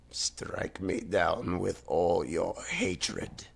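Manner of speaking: slow, hushed evil emperor line; a faint attempt at a sinister emperor; villain voice. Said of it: "I can't do voices right now".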